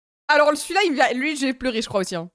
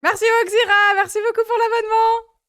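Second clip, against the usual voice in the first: bright thanks; 8 semitones higher than usual. Real, not acted. Thanking a new subscriber on stream.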